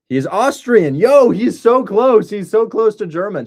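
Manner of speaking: high, loud, thrilled exclaiming; excited. Real, not acted. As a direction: blurt it out, delighted. Excited reaction to Austrian buyer.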